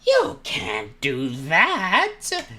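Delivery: very high, slow, loud squeal; girl version of Dory. Acted. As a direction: screech it as a hammed-up girl. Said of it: "I have to do the girl version".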